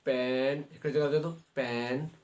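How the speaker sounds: पेन with its one vowel drawn out; slow teaching demo of पेन; vowel sound shown. Shown as a demonstration. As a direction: hold the "e" in पेन to show the vowel. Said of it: "वावेल sound पेन".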